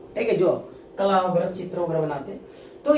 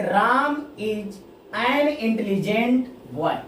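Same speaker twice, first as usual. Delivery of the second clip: very slow, even English read-out; slow classroom read-out; slow example read; much slower than usual. Shown as a demonstration. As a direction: read the sentence slowly for students. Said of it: "तीसरे sentence क्या कर रहा है".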